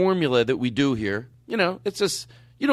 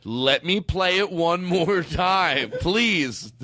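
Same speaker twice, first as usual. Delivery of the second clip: pleading mock; 3 semitones higher, much slower than usual. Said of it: "I have to go".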